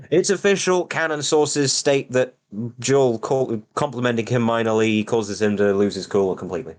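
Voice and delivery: hammed-up decree about the bird's canon; mock official announcement. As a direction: announce it like breaking lore news.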